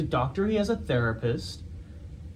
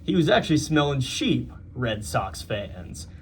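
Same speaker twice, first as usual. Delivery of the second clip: put-on New York accent. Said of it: "I'm trying to do it in a New York accent".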